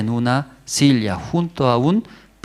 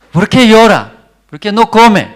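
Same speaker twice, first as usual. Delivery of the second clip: louder, higher, hammed-up husband asking his wife; consoling husband; 9 semitones higher, 11 dB louder than usual. Pastor acts out husband asking crying Ana, loud and high.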